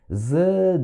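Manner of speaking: "здравствуй" dragged out slowly, sound by sound; syllable by syllable. Shown as a demonstration. Teacher shows students how not to read it, "здравствуй" in drawn-out syllables. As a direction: sound out "здравствуй" laboriously, stretching each piece. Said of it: "Se você ficar assim".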